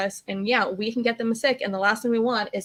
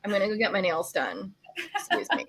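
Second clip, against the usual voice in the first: snooty bunny. Retold or imitated. Host voicing an Orange County bunny, mock snooty, trailing to a whisper. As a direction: brush past like a pampered errand-runner. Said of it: "And it's like".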